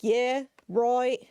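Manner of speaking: put-on 'right' said as 'roit' in a light British accent; a quick put-on British 'Yeah, right'; mock British accent. Quoting the Futurama British guy as a joke, light British accent. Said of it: "Sean and I'll just be like".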